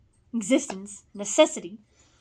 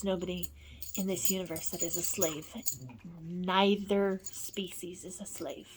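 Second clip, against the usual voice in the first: whisper; 5 semitones lower, 9 dB quieter than usual. Real, not acted. Whispered solemn statement.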